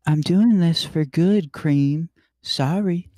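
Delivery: loud, slow, brooding hero voice; Shadow voice. Acted. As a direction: announce it like a grim edgy hero. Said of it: "my Shadow voice now".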